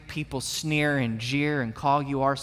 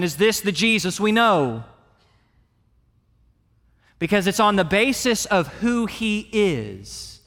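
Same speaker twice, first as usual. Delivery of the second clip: raised, insistent pulpit voice; emphatic sermon delivery, pitched up; impassioned preaching; 5 semitones higher, 6 dB louder than usual. Acted. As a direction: press it home to the congregation.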